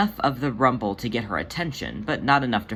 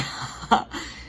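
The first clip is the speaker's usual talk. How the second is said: a short breathy giggle; soft airy giggle. Acted. Jelly giggles at Demeter's dark joke, soft airy giggle. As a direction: giggle lightly under the breath. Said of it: "Jelly giggled".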